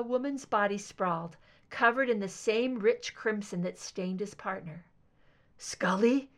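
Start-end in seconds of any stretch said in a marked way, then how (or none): 5.6-6.3 strained, choking call of her name; choked out. Acted. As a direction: force the name out through a tight throat. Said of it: "He choked out her name".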